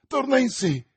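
high, loud cry of relief; relieved exclamation. A narrator's reading. Young man seeing her revive, relieved exclamation. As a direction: exclaim it with sudden hope. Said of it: "esclamò il giovane".

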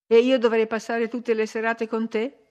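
rising exasperated challenge; increasingly irritated. A narrator's reading. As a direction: throw it back at him, annoyed. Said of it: "domandò lei sempre più irritata".

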